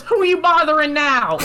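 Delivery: high, loud imitation of a nagging woman; scolding woman. Woman coming out to the garage, mock scolding. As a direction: holler it up high, hammed-up.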